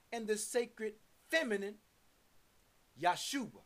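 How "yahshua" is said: "Yahshua" in three syllables, Yah-shu-a, pitched lower; three-syllable pronunciation. Shown as a demonstration. Preacher naming the feminine word, "Yahshua" in three syllables. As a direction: say "Yahshua" low, going straight from Yah to shu. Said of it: "Three syllables".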